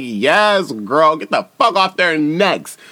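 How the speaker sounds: high, loud hype yell; excited cheer. Retold or imitated. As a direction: cheer her on like a fan. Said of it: "I was like".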